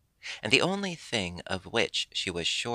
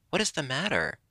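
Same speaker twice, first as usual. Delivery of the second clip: a touch of sternness, pitched up; stern husband; 7 semitones higher, faster than usual. Acted. Husband snake to his crying bride, a hint of sternness. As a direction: ask it sternly but lightly voiced. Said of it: "quite sternly".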